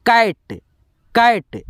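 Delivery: कैट said slowly with open a; slow model word कैट; cat. Shown as a demonstration. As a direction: stretch out कैट, vowel open as in bat. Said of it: "तो इसका उच्चारण अ होगा".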